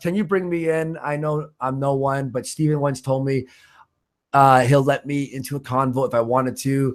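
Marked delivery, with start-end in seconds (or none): none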